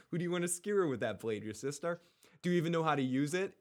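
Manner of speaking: shaky attempt at an accent, quick; amateur accent imitation of a TV father; Ned Stark. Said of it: "but with the accent".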